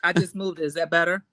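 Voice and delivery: a bit far from the mic; muffled. Real, not acted. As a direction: still slightly muffled. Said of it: "It just sounds a little muffled to me".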